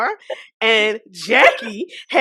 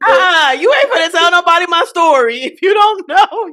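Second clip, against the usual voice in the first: loud, animated objection; raised-voice playful protest; 4 semitones higher, 5 dB louder than usual. Real, not acted. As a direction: cut in loudly to shut the story down. Playful protest over telling her story.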